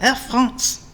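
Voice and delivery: "Air France" said like the French ad, "eh Fronce"; French-style Air France. Retold or imitated. Repeating the airline's own way of saying it, French style. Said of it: "They said it like that".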